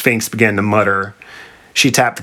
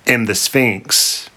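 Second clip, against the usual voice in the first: dramatic; much slower than usual. Acted. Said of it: "added to the drama of the moment".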